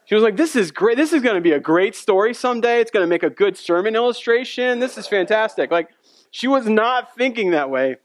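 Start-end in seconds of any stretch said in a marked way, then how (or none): 0.4-5.7 brightly ironic, slightly raised pitch; mock delight. Wife supposedly loving the birth ordeal, mock delight. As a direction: play up enthusiasm she clearly did not feel.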